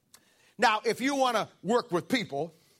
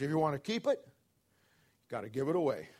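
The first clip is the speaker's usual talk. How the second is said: softly stated principle; 8 semitones lower, 5 dB quieter than usual. Real, not acted. Sums up the key principle.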